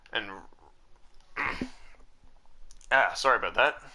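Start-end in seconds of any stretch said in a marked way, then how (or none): 1.4-1.9 clearing throat after swallowing a bug; just swallowed a bug. Real, not acted. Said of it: "Swallowed a bug".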